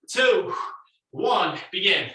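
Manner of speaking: loud coach count; shouted countdown. Real, not acted. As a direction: call it out loud.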